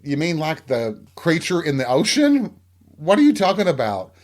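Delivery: imitating an exasperated, confused question; baffled. Manager asks Donna about an ocean creature, baffled.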